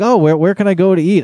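quick, high, eager question; eager asker impression. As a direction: rattle it off like an eager visitor. Imitating people who ask him.

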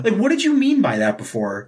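high, put-on teasing voice; mock serious. Friend teasing cohost in a goofy high voice.

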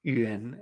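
YUAN as "ü-en", low and soft, rising; ending in isolation. Shown as a demonstration. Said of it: "esta terminación".

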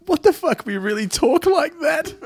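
high, loud, laughing Baltimore guy; cracking up in a broad Baltimore accent. Pretend. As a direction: Baltimore local laughing at his own "earn". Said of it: "requoting the Baltimore guy".

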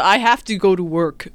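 lightly voiced British robot; a hint of a robotic British dad. Joking about dad outside the house, lightly robotic British voice. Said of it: "it's a British robot".

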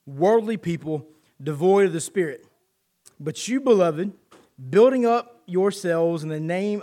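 loud, deliberate Bible reading from the pulpit; scripture reading. Acted. Preacher reads scripture aloud.

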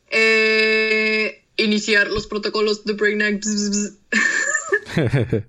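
lightly robotic villain voice, buzzing; a hint of a cold machine; Brainiac robot voice. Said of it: "muy buena imitación de Brainiac".

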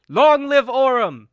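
loud, high, drawn-out cheer; slow triumphant shout; rallying cry. Acted. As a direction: proclaim it to the crowd. Ends rally speech to crowd.

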